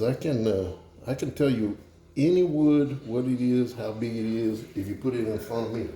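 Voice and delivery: lightly voiced Cajun accent; Justin Wilson. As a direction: brag as a Cajun joke character, lightly acted. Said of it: "do the Justin Wilson thing and tell a joke".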